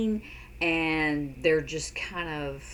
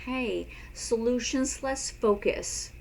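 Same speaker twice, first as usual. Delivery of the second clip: slow demo suggestion; 5 semitones higher than usual. Shown as a demonstration. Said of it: "then you can say".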